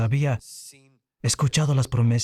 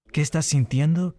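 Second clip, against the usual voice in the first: ¿Qué estás sintiendo? pitched higher, rising on sintiendo; higher, rising plea on sintiendo; pleading question; 4 semitones higher than usual. Shown as a demonstration. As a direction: lift it into a longing question. Repeating the song's plea, now asking.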